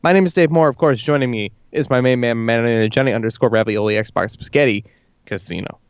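show host intro. Acted. Show intro over music.

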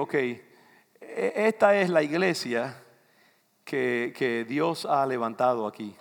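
normal talking voice

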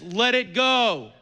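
slow, playful "Let it go" with a laugh; Elsa's line. Retold or imitated. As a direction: quote the Disney queen tongue in cheek. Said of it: "And as Elsa, the, the theologian, says".

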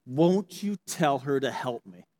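slow, pleading complaint; exasperated plea. Retold or imitated. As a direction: beg Jesus to make her sister help. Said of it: "she's so exasperated".

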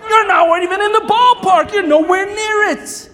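dad's inner voice about the missed potty; exasperated inner rant. Retold or imitated. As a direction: blurt out the frustrated truth. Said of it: "in the back of the mind".

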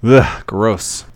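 disgusted groan of distaste; annoyed ugh. Real, not acted. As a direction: grumble it with a wince. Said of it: "I do not miss those days".

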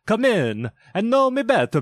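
high, ringing spirit voice; echoing ethereal energy being. A narrator's reading. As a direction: call out like a booming jolly ghost. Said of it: "exclaimed the ghost".

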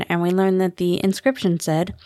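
ordinary delivery

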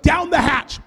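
loud, high cheer before gulping; toast shout. Retold or imitated. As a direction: shout it and knock it back. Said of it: "she's like".

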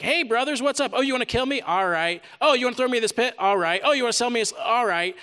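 a hint of a careless Joseph shrugging off his brothers; mock casual Joseph. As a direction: play Joseph as lightly unbothered, mocking. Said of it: "It's not like he's like".

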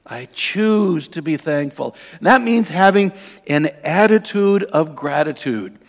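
slow, weighty sermon declaration; emphatic preaching. Real, not acted. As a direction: drive each key word home to the congregation.

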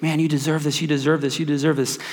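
genuine praise. Retold or imitated.

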